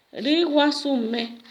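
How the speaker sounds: Riguasumé said slowly and clearly as a model; model word, slowly. Shown as a demonstration. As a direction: say Riguasumé slowly for pupils to repeat. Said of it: "gallo decimos".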